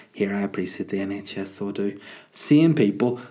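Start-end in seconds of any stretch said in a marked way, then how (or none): 0.1-2.0 smug poster. Retold or imitated. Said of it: "people sharing their story to be like".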